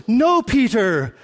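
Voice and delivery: lofty pious mock sermon voice; hammed-up biblical Jesus, rising on flee; mock King James Jesus. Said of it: "sometimes we read the Bible this way".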